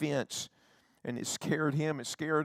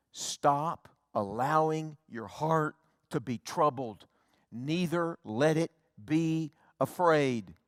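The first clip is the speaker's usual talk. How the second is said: commanding; 4 semitones higher, 6 dB louder, slower than usual. Retold or imitated. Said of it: "as a command".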